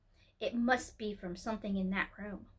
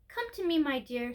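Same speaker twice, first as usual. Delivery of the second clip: a hint of an old lady beckoning; sweet old lady; 2 semitones higher than usual. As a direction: call the child over gently as a grandmother would. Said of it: "sweet but old and rather shaky voice".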